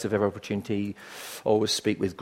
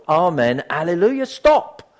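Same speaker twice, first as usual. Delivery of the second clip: preaching crescendo, louder and higher to a shouted last word; Doctor Lloyd Jones; 5 semitones higher, 6 dB louder, slower than usual. Retold or imitated. Imitating a preacher ending his sermon, rising to a shout. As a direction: build to a ringing climax, then cut off. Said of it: "comes to that great crescendo".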